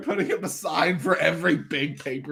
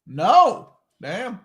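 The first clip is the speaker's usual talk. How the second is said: dismayed; 3 semitones higher, 5 dB louder than usual. Real, not acted. Reacting live to a match finish.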